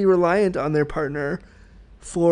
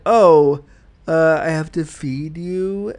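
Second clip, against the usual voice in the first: loud "oh", then slow, weighted "feed"; imitated reluctant answer stressing "feed"; 4 dB louder, slower than usual. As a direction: drag it out and lean on "feed". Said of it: "the way they say feed".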